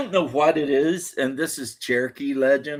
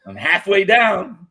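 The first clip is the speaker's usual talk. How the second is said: laughing mock wail; 7 semitones higher, 5 dB louder, slower than usual. Voicing the falling wife.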